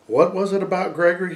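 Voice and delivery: a gently asking father, pitched a little up; lightly voiced gentle father. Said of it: "His father's voice sounded so gentle".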